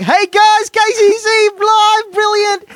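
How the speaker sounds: very high, loud, over-enthusiastic Australian impression; Hannah. Host imitates Australian colleague in his dream, shrill enthusiastic shout. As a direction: mimic an excitable Australian presenter, stretching it out. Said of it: "that's how she speaks".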